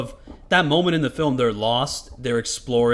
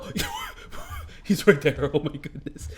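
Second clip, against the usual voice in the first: startled gasp; slower than usual. Real, not acted. Alien drops down suddenly.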